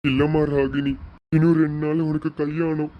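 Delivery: a father close to crying over his daughter leaving; tearful father. Acted. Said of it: "அப்பா அழுகாதீங்கப்பா". (அழுகையை அடக்கும் அப்பாவின் குரல்)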